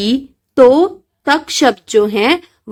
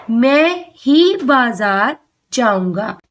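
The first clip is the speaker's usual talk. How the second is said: slow, with ही pressed hard; stress on ही; slower than usual. Shown as a demonstration. Teacher to children, slow, stressing ही. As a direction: make ही carry the emphasis. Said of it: "बलपूर्वक कहा गया है".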